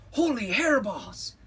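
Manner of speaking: high, loud exclamation; exclaimed. A narrator's reading. Kitty boy at the mirror, exclaiming loudly. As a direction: burst out in amazement, pitch way up. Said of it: "exclaimed Skippy John Jones".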